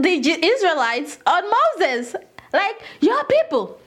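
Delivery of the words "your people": "your" pitched high, then falling; "your people" with a high leap on "your"; stress on YOUR. Acted. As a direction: punch "your" high to disown them. God disowns the people, repeated.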